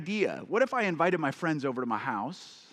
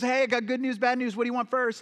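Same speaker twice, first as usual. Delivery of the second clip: put-on Southern accent; 8 semitones higher, 4 dB louder than usual. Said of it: "Southern accent".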